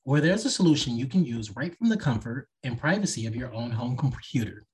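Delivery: smooth podcast ad read. Acted. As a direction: read it like a sponsor spot. Host reads sponsor ad and outro.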